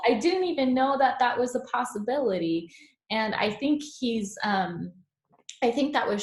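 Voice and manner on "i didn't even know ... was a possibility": amazed. Retold or imitated. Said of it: "he always kind of brings in this third option".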